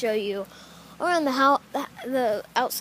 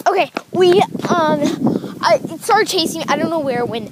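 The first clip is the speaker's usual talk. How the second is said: out of breath; 3 semitones higher, 6 dB louder than usual. Real, not acted. Just chased, shaken.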